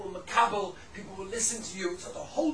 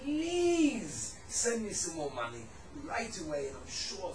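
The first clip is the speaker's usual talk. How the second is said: pleading letter; 7 dB louder, slower than usual. Retold or imitated. Son's letter reread to the father, slow tender pleading. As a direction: plead gently with a father you love. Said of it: "the way that you say it, the tone of voice".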